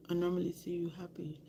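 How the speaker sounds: quick, hushed whisper; fast tender whisper to a coworker; soft whisper. Retold or imitated. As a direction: whisper it gently to a grieving friend. Comforting her grieving coworker.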